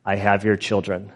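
low, measured robot-kidnapper threat; lightly voiced scary megaphone computer; imitated scary voice. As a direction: do a mock-menacing computer voice, kept low. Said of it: "like this scary voice".

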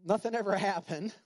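airy high mock cheer; mock carefree pretending. Preacher mocking pretending all is fine, high and airy. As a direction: brush it off like nothing happened. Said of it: "Like the video".

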